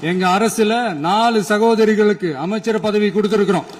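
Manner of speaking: emphatic, projected rally oratory; political speech. Real, not acted. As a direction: drive each point home to the crowd.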